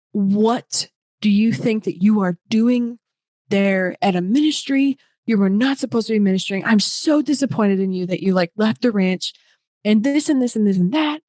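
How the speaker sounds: imitating an angry aunt's text; scolding Lacey. Retelling Lacey's scolding text, mock scolding.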